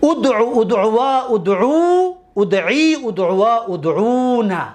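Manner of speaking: teacher reciting conjugation forms; recited paradigm. Shown as a demonstration. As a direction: chant the six forms in a row. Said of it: "یک بار دیگر".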